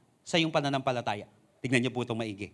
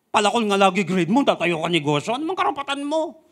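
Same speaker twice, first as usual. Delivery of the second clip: mocking voice.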